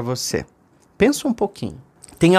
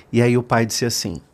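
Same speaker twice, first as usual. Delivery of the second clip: usual speaking voice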